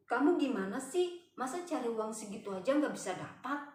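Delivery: mock an impatient telling-off; imitated scammer's irritation; retold anger. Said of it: "terus dia marah, dia bilang".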